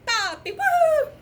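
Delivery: high, loud mock hollering; imitated Jamaican guy. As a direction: holler each word, ending in a whoop. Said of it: "Jamaican guy is getting louder".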